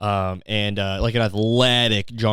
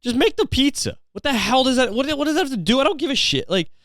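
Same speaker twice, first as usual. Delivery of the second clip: very high-pitched, incredulous outburst; hammed-up fed-up customer; exasperated rant; 13 semitones higher than usual. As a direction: cut them off in comic outrage. Comic rant at pizza business.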